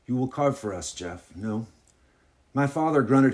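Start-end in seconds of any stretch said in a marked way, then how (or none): 0.1-1.7 hostess's lightly put-on French accent. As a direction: ask with a homespun French accent. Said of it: "this is my French accent".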